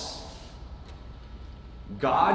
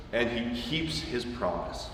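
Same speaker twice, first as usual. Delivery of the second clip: quiet emphasis; 5 semitones lower, 9 dB quieter than usual. Acted. Sermon climax, softening.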